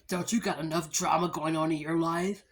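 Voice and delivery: lightly voiced ex-boyfriend, teasing; a hint of the nagging boyfriend; mock ex-boyfriend. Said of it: "my ex-boyfriend gonna bust out and say".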